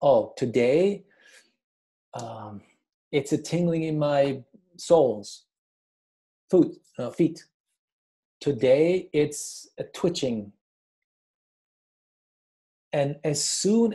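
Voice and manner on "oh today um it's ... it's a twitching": calm observing. Shown as a demonstration. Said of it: "if you know where it is".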